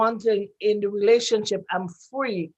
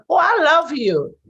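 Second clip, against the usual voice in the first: higher, louder "oh, I love you"; effusive declaration; 5 semitones higher, 6 dB louder than usual. Retold or imitated. Woman freely telling a man she loves him, effusive. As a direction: gush it out freely.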